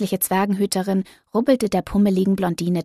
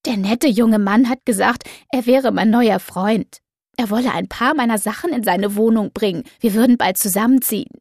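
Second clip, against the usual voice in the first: mumbling between sobs; 3 semitones higher, 4 dB louder than usual. Acted. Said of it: "nuschelte Doro zwischen Schluchzern".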